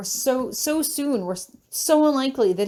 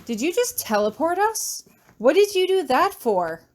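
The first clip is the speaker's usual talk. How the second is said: put-on startled boy voice; 7 semitones higher than usual. Daniel startled after teleport.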